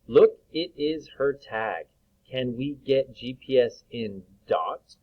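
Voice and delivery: slow, lifted story voice; teacher reading the story aloud to children. Acted. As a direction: read it slowly and brightly. Reads story line aloud.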